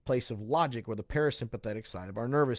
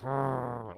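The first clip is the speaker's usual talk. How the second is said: mock growl; 5 dB quieter than usual. Acting out being triggered when asked.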